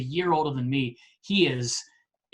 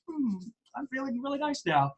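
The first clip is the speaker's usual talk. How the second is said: retold contentment; 10 semitones higher, 6 dB quieter than usual. Pleased at coach's praise, retold.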